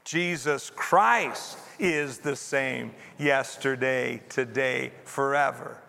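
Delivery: measured group reading, "Christ" standing out; stress on CHRIST. Shown as a demonstration. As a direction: lean hard on the word "Christ". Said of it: "put the emphasis on a different word".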